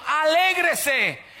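very slow, high and loud; stretched exhortation. Real, not acted. Preacher urging the faithful to rejoice, very drawn out. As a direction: draw the word out like a joyful command. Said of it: "cuando Dios está en el corazón".

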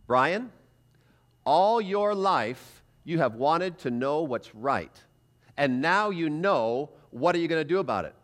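a slow, solemn inner voice calling his name; lightly voiced conscience, slow and steady. Preacher voices the conscience speaking to him, slow and solemn. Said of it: "the voice said this".

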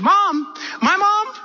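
high-pitched, anguished disbelief, imitated; acted hurt protest. Wife rejecting husband's idea to search for mom, high acted hurt. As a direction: play her stung by the old rejection.

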